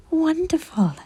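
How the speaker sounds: high, loud delighted owl. A narrator's reading. Hoot thrilled with the new nest, high and delighted. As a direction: cry it out with joy. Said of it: "said Hoot".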